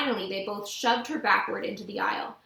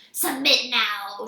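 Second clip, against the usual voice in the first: slow, hissing demand; hissed; 3 dB louder, much slower than usual. A narrator's reading. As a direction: hiss it out slowly like a monster. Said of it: "she hissed".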